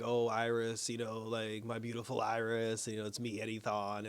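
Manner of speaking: low, soft mock-romantic plea; tender imitation. Returned lover revealing himself to Iris, mildly tender. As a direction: lightly imitate a wistful suitor, hushed and low. Retells Eddie wooing his lost love.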